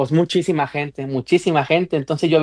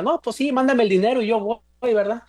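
lightly acted, higher-pitched placating reply; 6 semitones higher than usual. Man retelling how he humoured a relative for money, placating.

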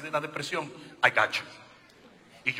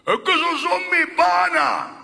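mock excuse; 13 semitones higher, 13 dB louder, slower than usual. Mocks an excuse, loud.

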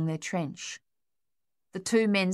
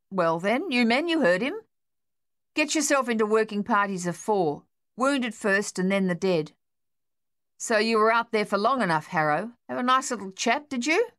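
captain's orders; 5 semitones higher, 3 dB louder than usual. Acted. Captain ordering men, sarcastic.

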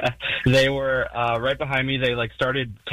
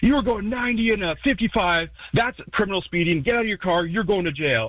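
higher mock stern cop voice; imitating the cop; 7 semitones higher than usual. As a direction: lay down the law like a cop. Retold cop threatening jail.

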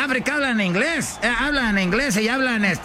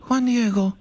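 Virgen; 2 semitones higher than usual. Acted. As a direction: speak as a heavenly vision, phrase by phrase. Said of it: "se le apareció la Virgen a Juan Diego y le dijo".

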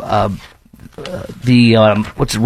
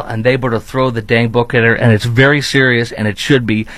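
usual speaking voice

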